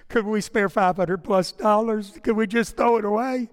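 half-laughing mock protest about the money; retold nervous plea to his wife; exasperated plea. Asking wife Sheila, exasperated.

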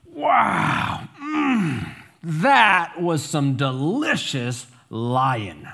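a dog bluffing big, stretching every word; loud voice. Acted. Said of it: "the dog says in a loud voice".

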